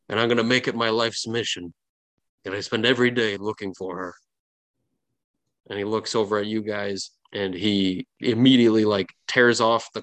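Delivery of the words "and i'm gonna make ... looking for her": lightly voiced old salty sailor; a hint of a tearful old sailor's vow; gruff old fisherman. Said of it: "old, salty sailor as he says".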